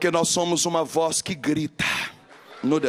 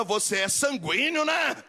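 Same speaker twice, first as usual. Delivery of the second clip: mock question; 7 semitones higher than usual. Mocking a lazy critic.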